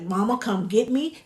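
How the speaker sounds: mock infant appeal; lightly acted pleading; crying baby's plea. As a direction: voice a baby calling for mama. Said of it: "that baby's gonna start crying like".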